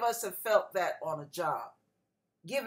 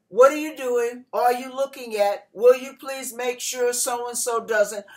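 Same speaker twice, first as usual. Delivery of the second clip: nagging boss. Retold or imitated. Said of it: "The whole year, it was".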